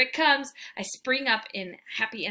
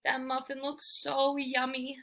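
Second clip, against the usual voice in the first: sweet coaxing; 4 semitones higher than usual. Acted. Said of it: "even sweeter this time".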